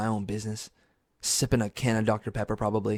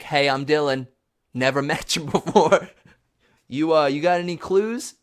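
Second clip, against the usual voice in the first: psycho fan; 4 semitones higher than usual. Retold or imitated. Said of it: "like a psycho, I'm like".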